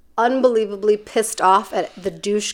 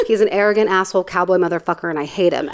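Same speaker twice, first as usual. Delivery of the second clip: Carla; 2 semitones lower, faster than usual. Retold or imitated. Bounty hunter tells the camera about Tyler, imitated deadpan aside. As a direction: rattle it off, then sink on the last words. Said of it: "looks right at the camera, and she says".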